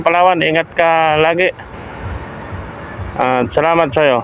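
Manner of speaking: lisping through a gap in the teeth; missing front teeth. Real, not acted. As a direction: talk like a tooth was just pulled. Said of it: "yung bagong bunot ang ngipin ko, ah, bungal ako".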